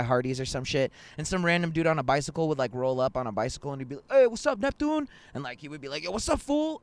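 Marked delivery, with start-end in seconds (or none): 4.1-5.1 high-pitched mock call-out; acted greeting. Random cyclist greeting buddy. 6.0-6.8 acted greeting. Buddy greets the cyclist back.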